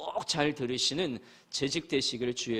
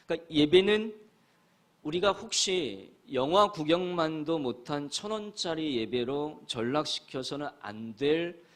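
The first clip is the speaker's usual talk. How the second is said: emphatic preaching; 4 dB louder than usual. Real, not acted. Preacher's key point.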